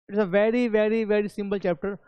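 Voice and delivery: very, very drawn out slowly; stress on very. Shown as a demonstration. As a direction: stretch each very to show how easy. (very को धीरे-धीरे खींचकर)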